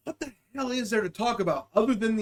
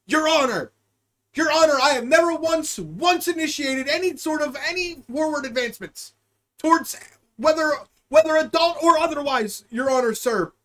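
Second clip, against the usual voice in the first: pleading defendant; 5 semitones higher than usual. Pretend. Pleading to a judge, mock trial.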